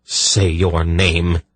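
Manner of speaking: slow, firm demand; implacable insistence. Acted. Polgara demands the intruder's name, implacable. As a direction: press for it, each word deliberate. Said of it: "Polgara insisted implacably".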